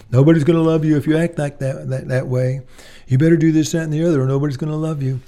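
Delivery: imitating a scolding voice that demands performance; scolding parent. Mocking a performance-based parent.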